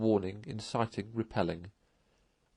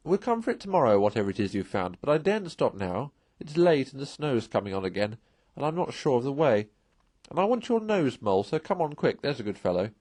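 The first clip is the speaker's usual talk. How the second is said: brisk, louder call from afar; calling back; 3 semitones higher, 3 dB louder than usual. Acted. Rat calling back to Mole to hurry, brisk and loud. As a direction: hurry him along, friendly but firm. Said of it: "he called back".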